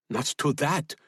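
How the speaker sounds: high refusal rising on THAT; defiant refusal. A narrator's reading. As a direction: throw the idea back defiantly. Woman refuses to leave others.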